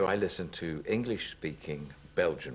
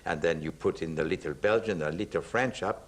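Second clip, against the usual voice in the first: building into Poirot. Shown as a demonstration. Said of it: "it sounds something like this".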